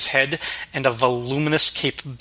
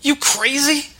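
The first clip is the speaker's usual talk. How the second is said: higher, gruff demand; rough thug snapping back; demanding waiter; 13 semitones higher than usual. Acted. Waiter confronting the Batman on the roof, higher rough voice.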